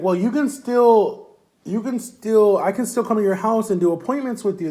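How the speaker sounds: a hint of the company head offering help; voicing the CEO.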